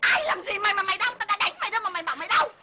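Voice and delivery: indignant, rapid-fire husband's retort; bullying husband. Acted. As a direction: scold like an overbearing husband. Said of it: "Em làm chồng em".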